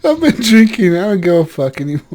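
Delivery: mock drunk bloke. Continuing joke accent voice.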